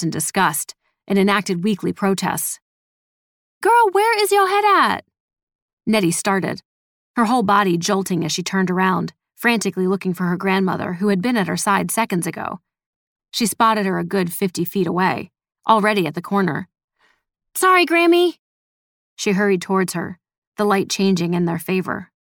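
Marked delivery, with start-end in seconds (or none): 3.6-5.1 high, raised-voice scolding call. A narrator's reading. Grandmother calls from fifty feet. 17.5-18.4 high, louder apologetic call; calling back. A narrator's reading. Granddaughter calls back, hurrying.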